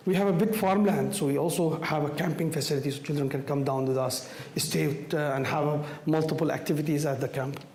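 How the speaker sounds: hoarse, worn-out voice from a cold. Real, not acted. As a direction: voice almost gone from a cold. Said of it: "my voice is gone almost".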